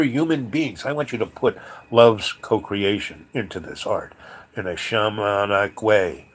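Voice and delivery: loud, emphatic retold proclamation; impassioned demand. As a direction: declare your vision forcefully.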